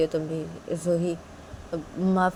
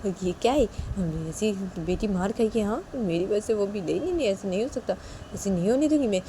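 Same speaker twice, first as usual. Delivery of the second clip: lightly voiced anxious parent, higher; worried papa; 4 semitones higher than usual. Piyu panicking over how to save the daughter.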